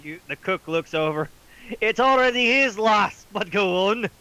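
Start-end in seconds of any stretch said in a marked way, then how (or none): 1.8-4.1 put-on Irish accent. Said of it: "Why is the cook Irish now?".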